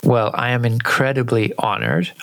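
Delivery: ordinary talk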